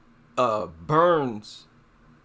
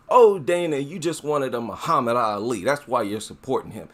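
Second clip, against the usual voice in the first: mocking racist fans. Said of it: "I'm actually quoting some of their words".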